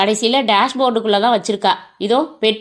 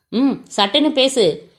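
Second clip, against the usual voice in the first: lightly voiced rough henchman barking an order; mild gruff captor voice; 3 semitones higher than usual. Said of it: "என்ற ஒரு முரட்டு குரலை".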